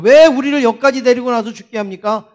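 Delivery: mildly indignant protest to God; preacher voicing a people's reproach; acted complaint. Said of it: "하나님을 막 불평하는 거예요".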